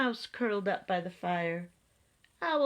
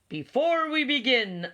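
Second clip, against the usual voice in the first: higher, louder cheerful announcement; beaming; 5 semitones higher, 5 dB louder than usual. A narrator's reading. Owl opening the meeting, beaming. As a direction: open the meeting proudly. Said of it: "Owl beamed".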